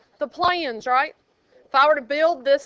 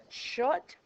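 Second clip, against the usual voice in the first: whisper; 10 dB quieter, much slower than usual. Acted. Teacher hushing noisy class.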